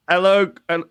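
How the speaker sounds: put-on a slipping Jamaican accent that drifts British; imitating Cage's Jamaican accent, going off; Jamaican accent attempt. Retelling Cage's audition in a Jamaican accent. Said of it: "Cage in a Jamaican-sounding accent".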